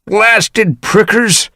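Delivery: put-on high, very slow old-cat grumble; cranky old tom caught in brambles, croaking; croaking irritation. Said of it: "croaking with irritation".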